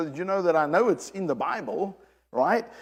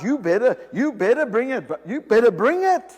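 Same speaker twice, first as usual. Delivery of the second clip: louder, pushy demand; 5 semitones higher, 6 dB louder than usual. Retold or imitated. Preacher voices his church's demand, loudly. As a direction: press the demand hard.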